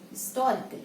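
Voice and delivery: historical as 'is-TOR-ical', H dropped; stress on second syllable. Shown as a demonstration. Teacher sums up the syllables, stress on TOR. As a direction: punch TOR in historical and let the rest fall. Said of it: "second syllable".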